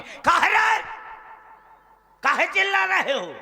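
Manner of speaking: hammed-up dad snapping at the kid; mock angry father. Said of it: "बड़े ताई में बोला करूंगा गुस्सा में".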